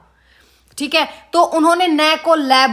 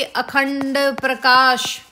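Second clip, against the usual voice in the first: slow dictation; much slower than usual. Shown as a demonstration. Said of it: "अखंड प्रकाश में लिखा गया है".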